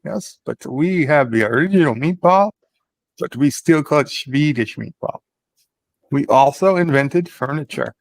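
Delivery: put-on Swedish accent, played for laughs. Claiming the Swedish family invented the meatball, in a put-on Swedish accent. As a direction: lean into a comic Swedish accent. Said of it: "You're sounding very Swedish here".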